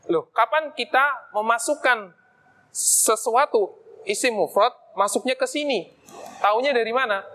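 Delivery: slow, puzzled student asking; lightly voiced puzzled pupil; student's question. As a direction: voice a confused student, drawn out. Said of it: "Terus mungkin nanti ada pertanyaan".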